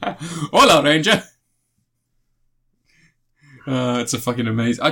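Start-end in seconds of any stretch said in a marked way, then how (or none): 0.0-1.2 mock Spanish toy voice. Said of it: "it says something about "Hey, Ranger".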